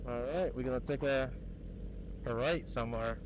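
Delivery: muffled, talking inside a helmet. Real, not acted. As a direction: speak as if your voice is trapped in a helmet visor. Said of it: "my helmet is fogging up".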